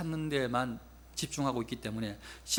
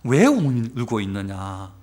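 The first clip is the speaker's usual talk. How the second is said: slow, low, measured angel; lightly voiced angel, drawing out the question; angel's question; 6 semitones lower, 3 dB louder, slower than usual. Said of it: "천사들이 뭐라고 그러냐면".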